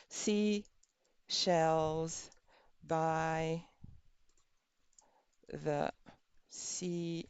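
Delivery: slow, fading words around a pen; pen in teeth. Shown as a demonstration. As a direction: speak softly with a pen in the teeth. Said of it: "with the pen in your mouth".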